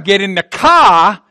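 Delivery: mock Boston "car" without the R; lightly put-on Boston accent. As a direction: imitate a Bostonian saying car. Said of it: "that's how those Boston people talk".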